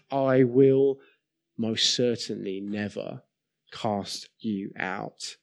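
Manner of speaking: measured words that settle into a hushed close; solemn reassurance. Retold or imitated. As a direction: reassure quietly, with long pauses between phrases. Preacher voices Jesus' reassuring reply.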